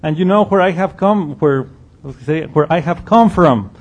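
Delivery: starts loud and high, then eases into mocking; Jesus answering the crowd with loud sarcasm. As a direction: throw their claim back at them sarcastically. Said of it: "he speaks loudly".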